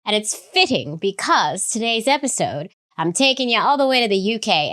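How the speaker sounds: hammed-up attempt at a UK accent; terrible UK accent. Host taking listeners to the UK, terrible UK accent. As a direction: do a bad mock British accent. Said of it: "I'm gonna stop doing a terrible accent".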